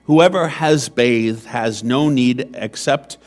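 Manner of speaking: measured, solemn reading of scripture; Gospel proclamation. Acted. Priest proclaims the Gospel to the seated congregation, solemn and measured.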